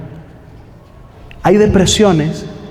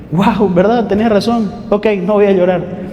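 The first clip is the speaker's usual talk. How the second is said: sarcastic reply. Retold or imitated. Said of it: "No es tan fácil como eso".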